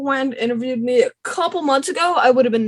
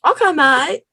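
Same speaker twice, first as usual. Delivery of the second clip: higher, exaggerated Aussie "mate"; Australian accent attempt; 5 semitones higher, 3 dB louder, slower than usual. Shown as a demonstration. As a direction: learner pushing the Australian vowel in "mate". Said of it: "The A has to be a little more longer and nasal".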